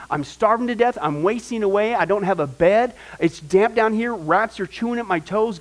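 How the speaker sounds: whiny prisoner griping to God; lightly voiced complaint from a pit; mock complaining Paul.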